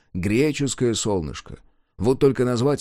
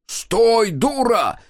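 high, loud yell after her; 11 semitones higher, 4 dB louder, much slower than usual. A narrator's reading. Guard yells after the fleeing woman, shouting. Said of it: "завопил опомнившийся первым вражина".

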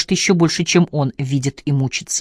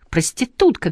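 shout; 8 semitones higher than usual. A narrator's reading. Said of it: "кричала она".

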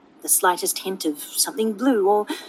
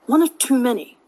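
sharp; 3 semitones higher than usual. Acted. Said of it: "Astarion says sharply".

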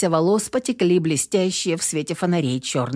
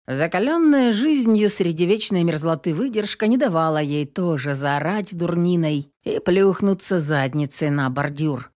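ordinary delivery

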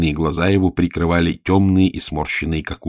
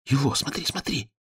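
hurried hushed urging, higher and much softer; quick whisper; 8 semitones higher, 7 dB quieter than usual. Acted. Page urgently points out the old man to Elo. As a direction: nudge a friend under your breath. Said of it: "быстро зашептал паж".

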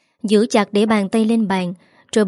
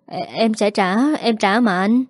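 stammering. Acted. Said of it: "hắn lắp bắp trả lời".

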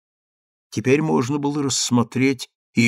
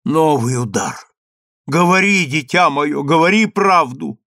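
urgent plea; 4 semitones higher, 5 dB louder than usual. Acted. Mother pleads urgently.

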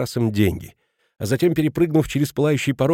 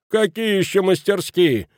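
higher, slower incredulous question; astonished; 8 semitones higher than usual. A narrator's reading. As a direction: punch какие in disbelief. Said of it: "изумился Кранер".

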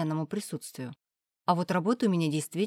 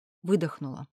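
usual speaking voice

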